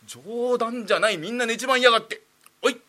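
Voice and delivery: indignant master. Acted. Master finds the whole audience asleep, indignant outburst. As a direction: fume at the sleeping crowd.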